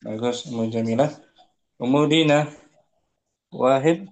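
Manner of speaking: glitching robot voice breaking up; bad call line cutting in and out; choppy connection. Real, not acted. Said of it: "suaranya putus-putus". (suara putus-putus)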